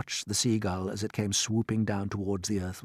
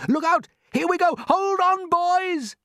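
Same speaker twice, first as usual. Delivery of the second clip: excited shout; 5 dB louder, slower than usual. Acted. Crew as peach rises.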